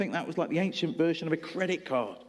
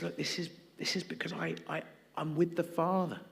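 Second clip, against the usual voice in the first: gentle invitation; 5 dB quieter than usual. Retold or imitated. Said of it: "Jesus says".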